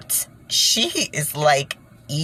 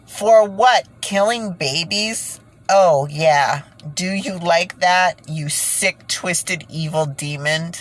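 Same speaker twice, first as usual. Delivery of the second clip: outraged confrontation; 3 semitones higher, slower than usual. Real, not acted. Confronting Hillary with accusation.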